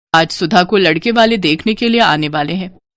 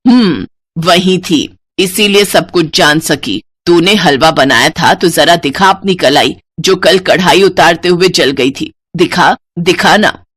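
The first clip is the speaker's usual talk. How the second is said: mother-in-law; 4 semitones lower than usual. Acted. Sarla exposing the lie.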